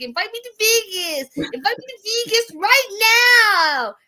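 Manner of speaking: high, insistent pleading; high demanding whine. Retold or imitated. Natalie begging Josh outside, high demanding whine. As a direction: pitch it up and demand. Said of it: "and she's like".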